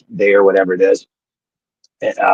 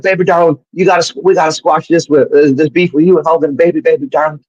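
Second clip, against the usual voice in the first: high-pitched impression of an excitable wrestling manager; Jimmy Hart; 7 semitones higher than usual. Manager at breakfast urging peace, high-pitched wheedling impression. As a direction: coax him in a pitched-up hustler's patter.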